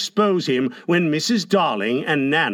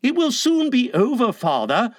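put-on higher-pitched boyish cheer; cheery; 8 semitones higher than usual. A narrator's reading. Son reassuring his father about the medicine, cheerily. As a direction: chirp it to reassure. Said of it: "John said cheerily".

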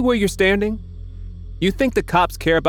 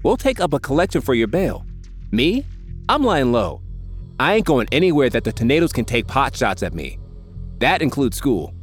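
higher, mocking, dry tone; sarcastic Mick; 4 semitones higher than usual. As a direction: needle the do-gooder.

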